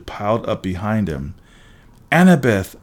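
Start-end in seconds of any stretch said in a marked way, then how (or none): 2.1-2.8 loud, higher exclamation of a name; flustered. A narrator's reading. Hero facing friend who appeared, flustered exclamation. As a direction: blurt the name out. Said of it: "I stammered".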